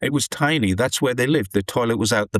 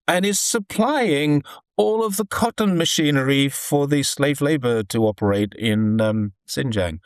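sarcastic; 3 semitones higher than usual. Real, not acted. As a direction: deliver the accusation with sarcastic emphasis, easing down at the end. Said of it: "That was sarcasm, by the way".

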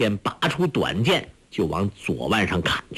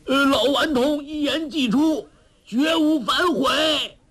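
calling from far off. A narrator's reading. Zhou Botong calling back from far off, distant shout. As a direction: fling the words back from far away. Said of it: "远远地说".

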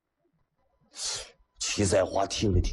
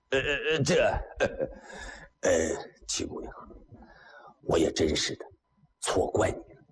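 stammering apology. Acted. Huang Tianba stammers his apology.

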